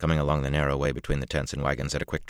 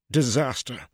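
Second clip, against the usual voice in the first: moaning; 10 semitones higher, 5 dB louder, slower than usual. Acted. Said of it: "Luca moaned".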